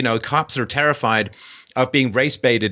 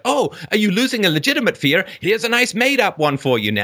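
mock sarcastic offer; 6 semitones higher than usual. Mock quote of elites offering fear.

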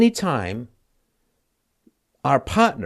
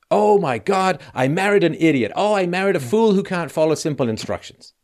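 imagined wife despairing; 4 semitones higher than usual. Retold or imitated. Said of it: "you're gonna wake up and you say".

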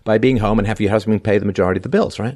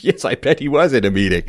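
sarcastic; 3 semitones higher than usual. Real, not acted. Sarcastic aside about husband.

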